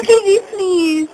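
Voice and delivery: laughing. Real, not acted. Laughing fit, crying.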